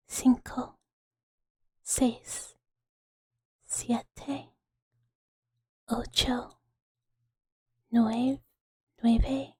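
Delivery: slow, careful Spanish count. Shown as a demonstration. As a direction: count one number at a time with long pauses. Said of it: "Okay, we do it again".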